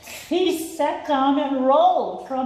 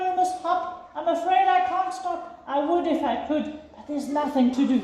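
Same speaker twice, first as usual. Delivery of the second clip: raised, fretful elephant voice; a big worried elephant who can't stop sneezing; apologetic elephant, a little breathless; 4 semitones higher than usual. Acted. Elephant's held story voice.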